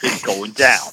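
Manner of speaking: lightly played Jersey tough guy, mock threatening; deadpan mock threat like a Jersey bruiser; a hint of a New Jersey tough guy. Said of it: "teaching you the mindset of every New Jersey person".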